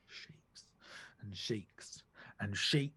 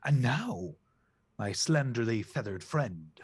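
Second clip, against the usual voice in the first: goose king; 6 dB louder, slower than usual. Acted. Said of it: "Goose King turns to Hearn".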